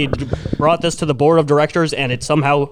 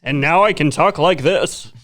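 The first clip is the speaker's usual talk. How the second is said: SpongeBob announcer. Pretend. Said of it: "I sound like the SpongeBob announcer".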